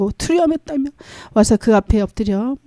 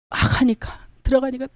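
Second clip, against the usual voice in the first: whisper; 5 dB quieter than usual. Acted. Hushed telling of sickroom scene.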